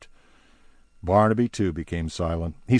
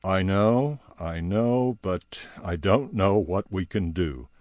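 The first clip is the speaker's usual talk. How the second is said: defeated tone. Retold or imitated. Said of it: "with a kind of defeated tone".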